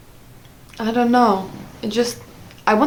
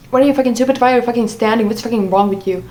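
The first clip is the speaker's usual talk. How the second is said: retold yelling; 3 semitones higher, faster than usual. Retelling boyfriend cutting in on her thoughts, mock angry yell. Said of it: "start yelling when he's like".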